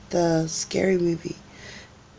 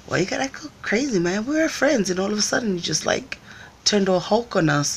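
mock cool scolding; 5 semitones higher than usual. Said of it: "I'm trying to act all cool".

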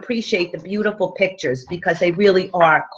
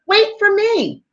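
little fish pleading; 3 semitones higher than usual. Acted. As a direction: beg sweetly like a tiny fish. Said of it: "he called".

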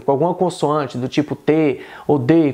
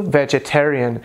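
American accent; slower than usual. Shown as a demonstration. Teacher giving the American version, American accent. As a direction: say "vegetarian" in American English.

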